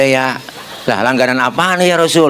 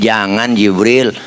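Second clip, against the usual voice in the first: gentle refusal; 5 semitones lower, slower than usual. Acted. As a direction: hold him back gently. Prophet restrains Jibril. (Nabi menahan Jibril dengan lembut dan rendah)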